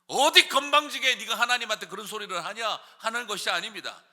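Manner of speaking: ordinary talk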